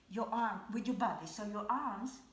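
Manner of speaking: talking with food in mouth; words round a mouthful; mouth full. Real, not acted. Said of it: "sorry, I have something in my mouth".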